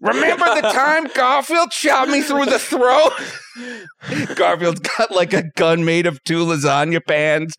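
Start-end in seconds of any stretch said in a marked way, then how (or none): 0.0-3.1 cartoon dad shouting; Peter Griffin voice.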